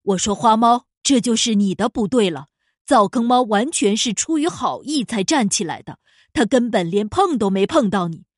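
loud, stern boss cat. Acted. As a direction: scold firmly like a boss. Boss scolds then moves on.

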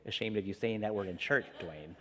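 a hint of a shamed old grandmother; scolding grandma from heaven. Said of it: "she's actually saying to me".

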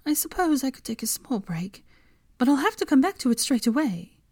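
high, clipped-off protest; protesting Hermione. A narrator's reading. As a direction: push back, a little indignant.

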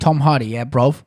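punchy London-style British accent; clipped-in catchphrase in a put-on British accent. Shown as a demonstration. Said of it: "get me into the mindset of a British accent".

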